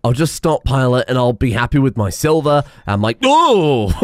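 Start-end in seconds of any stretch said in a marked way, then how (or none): 3.2-4.1 a loud, high burst of laughter; startled laugh. Real, not acted. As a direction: yelp then laugh at the fright. Jump scare from stench.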